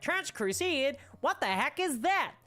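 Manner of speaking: high-pitched, mock-baffled questioning voice; imitating puzzled viewers. Streamer imitating people unfamiliar with the game, mock bafflement. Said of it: "people out there who are like".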